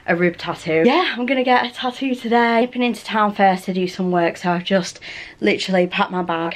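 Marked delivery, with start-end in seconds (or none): 4.4-6.5 breathless from packing in a rush; out of breath. Real, not acted. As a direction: talk while catching your breath. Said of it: "hence why I'm out of breath".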